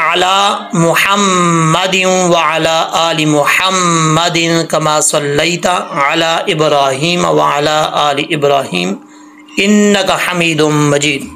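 slow tajweed reading with long vowels; measured Arabic recitation. Shown as a demonstration. Teacher reading out the durood, slow measured recitation. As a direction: recite deliberately, holding the doubled m's.

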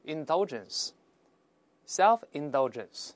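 each word stretched out and clearly articulated; slow model reading. Shown as a demonstration. Teacher reads the nouns aloud for students, slow model reading. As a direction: say it slowly for repeating. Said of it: "再读一下名词".

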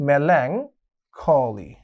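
melancholy stretched very slowly; very slow drilled word. Shown as a demonstration. Teacher drilling the word for students, very slowly. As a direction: draw melancholy out syllable by syllable. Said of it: "দুটি ভাগে ভাগ করে নিতে পারো".

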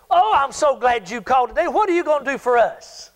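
mock-delighted, cheeky reply; facetious. Pastor to callers asking for handouts, facetious. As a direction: act sweetly glad, then turn the question round. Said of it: "just sort of facetiously".

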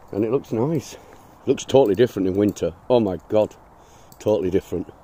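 talking around a cigarette; cigarette in mouth. Real, not acted. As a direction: cigarette in mouth while speaking. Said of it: "I've got a cigarette in my mouth".

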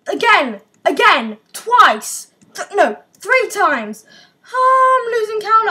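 excited yelling. Real, not acted. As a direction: shout each blast as it happens.

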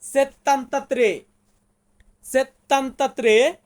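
slow, syllable by syllable; slow demo. Shown as a demonstration. Teacher sounds out an Italian number for students, slowly. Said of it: "Italian ভাষাতে বলবো".

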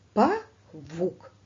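Павук said as па-вук, two separate pushes of breath; split into syllables. Shown as a demonstration. Teacher shows pupils the syllables, chopped apart. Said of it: "Два поштовхи повітря, два склади".

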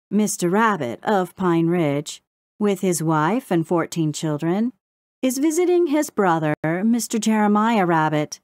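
lilting news recital; sing-song. A narrator's reading. Crow reciting news to Brownie in sing-song. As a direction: chant the news like a town crier. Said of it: "in a sing-song voice".

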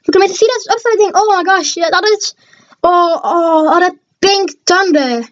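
excited, marvelling at a prize; real excitement. Real, not acted. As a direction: gush over your lucky find. Admiring the rare card just pulled.

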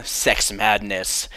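drawn out title reveal, slow; slow dramatic title. Shown as a demonstration. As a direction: announce it slowly. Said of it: "this is called".

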